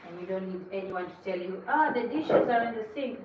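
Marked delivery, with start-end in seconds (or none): 1.7-3.2 raised, louder imitation of a nag; mock nagging. Someone reminding the cook about dirty dishes, mock nagging. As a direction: point out a chore like a nag.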